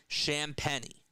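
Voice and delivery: "Champagny" as SHAM-penny, falling; pronunciation demo. Shown as a demonstration. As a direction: state "Champagny" with a short a, then "penny". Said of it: "that's how you say it".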